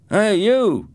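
loud, high shout from behind; calling out. Acted. Gang boy shouts at new kid, loud and high. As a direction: bark it at his back.

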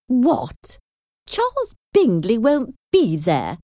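high-pitched, dismayed mother; shocked exclamation. A narrator's reading. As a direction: exclaim in indignant disbelief, pitch jumping up. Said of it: "she exclaimed".

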